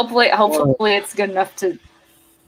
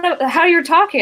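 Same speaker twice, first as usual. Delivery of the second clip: higher-pitched, puzzled exclamation; baffled students; 9 semitones higher, 4 dB louder than usual. Retold or imitated. Students questioning their teacher's odd talk, baffled and higher-pitched. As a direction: imitate kids thrown by what they just heard. Kids react to her sudden accent.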